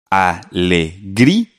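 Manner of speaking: "Alegría" slowly as a, le, grí, a; syllable by syllable. Shown as a demonstration. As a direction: break "Alegría" into four spaced beats, lifting grí. Teacher sounds out word by syllables.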